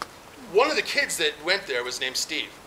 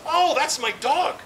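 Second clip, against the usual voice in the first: caller's voice; 10 semitones higher, slower than usual. Retold or imitated. Caller's voice retold.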